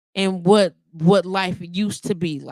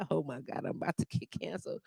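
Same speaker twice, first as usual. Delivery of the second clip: breathy whisper under the breath, much softer; whispered aside; 3 semitones lower, 13 dB quieter, faster than usual. Real, not acted. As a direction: murmur it like a guilty secret. Aside joke about getting canceled.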